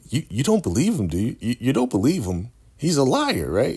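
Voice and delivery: imitating a nervous woman begging for reassurance; anxious pleading. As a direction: rush it like she's scared he believes it. She begs her lover.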